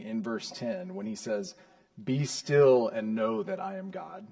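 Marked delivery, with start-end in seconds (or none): 2.0-4.3 raised, emphatic declaration; elevated, weighty proclamation; divine command. Acted. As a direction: proclaim it higher, as God speaking. God's command, quoted with emphasis.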